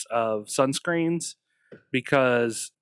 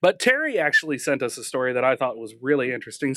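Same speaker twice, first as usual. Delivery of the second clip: a slight whistle on the S sounds; whistling through teeth; faster than usual. Real, not acted. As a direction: air hissing through the teeth. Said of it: "Sorry about that little whistle through my teeth".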